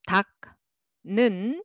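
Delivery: 닦는 split into two clear syllables; staccato; separate syllables. Shown as a demonstration. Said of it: "but together".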